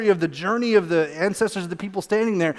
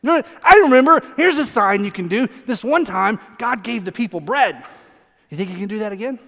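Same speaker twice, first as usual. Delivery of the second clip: acted child hinting for what it wants; unsubtle, eager pestering; wheedling toddler; 2 semitones higher, 5 dB louder than usual. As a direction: burst in loud, then coax. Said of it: "sounds like a toddler trying to get what they want".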